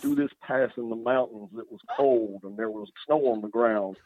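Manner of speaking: rural Southwest storyteller voice; Southwestern accent. Pretend. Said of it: "Southwestern accent".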